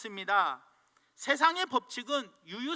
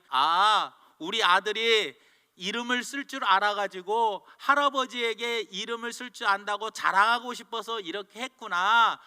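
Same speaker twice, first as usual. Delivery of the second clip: louder, understanding, slowing on 그렇구나; accepting mother; 6 dB louder than usual. Retold or imitated. Mother praises her son warmly for writing his name. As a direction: ease into it, accepting your boy. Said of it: "인정해줬어요".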